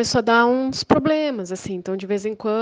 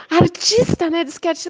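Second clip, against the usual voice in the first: mocking sneer; 7 semitones higher than usual. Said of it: "ela falava".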